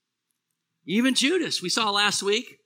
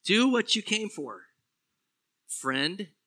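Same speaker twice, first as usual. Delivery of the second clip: gentle, not sarcastic; 2 semitones higher, slower than usual. Retold or imitated. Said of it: "I don't think Jesus said that sarcastically".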